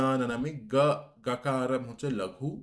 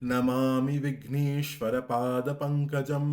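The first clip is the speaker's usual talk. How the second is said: slow, measured Sanskrit chant; slow recitation; slower than usual. Shown as a demonstration. Teacher reciting the verse line to students, slow and measured. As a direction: weigh every syllable as you recite. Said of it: "তারপরে শেষ ভাগে".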